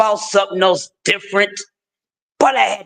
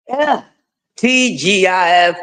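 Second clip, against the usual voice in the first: TGIF shout. Real, not acted. Host hyping his listeners: shouted TGIF. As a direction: call out TGIF to the audience.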